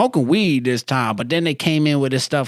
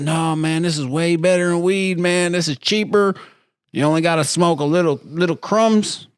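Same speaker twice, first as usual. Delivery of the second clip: higher-pitched voice of an eager persuader; imitated sales pitch; 5 semitones higher than usual. Inmates pushing Tunchi over weed, higher persuasive imitation. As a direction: talk him into it, pitched up.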